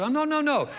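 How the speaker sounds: hurried high reassurance; eager reassurance. Retold or imitated. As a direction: rush to reassure them. Reassuring retold reply, pitch up.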